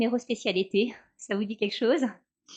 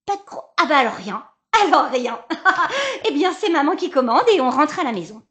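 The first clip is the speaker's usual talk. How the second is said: exasperated laugh; 4 semitones higher, 7 dB louder than usual. Acted. Mother loses patience, laughs.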